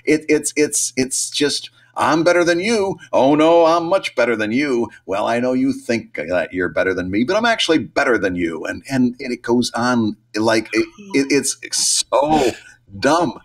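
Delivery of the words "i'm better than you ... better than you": mock cartoon taunt. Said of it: "taunting where you go like".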